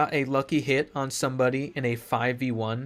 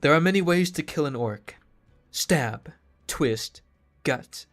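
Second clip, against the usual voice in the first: mock wise instructor. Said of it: "That's what she says".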